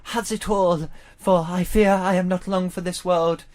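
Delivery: lightly mock-tragic dying Romeo; hint of a melodramatic Shakespeare actor; Shakespearean. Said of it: "So Shakespearean style".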